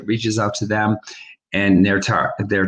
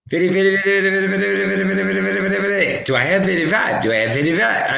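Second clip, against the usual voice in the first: a hint of a fast auction chant, much higher; mock Southern auctioneer; 6 semitones higher, much faster than usual. Host mocks a Southern auctioneer while calling charity bids. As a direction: rattle off bids like a half-hearted auctioneer. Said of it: "I can't sound like a Southern".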